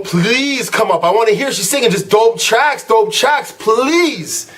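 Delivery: drawn-out, begging "please"; imitated begging, stretched out; mock pleading. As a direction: plead like an impatient fan. Fans begging singer to perform.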